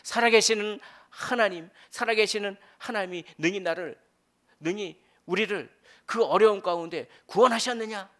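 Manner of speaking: 살아계시는 하나님 cried out high and loud as a desperate prayer; crying out in prayer. Acted. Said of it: "그럴 때 기도하는 거죠".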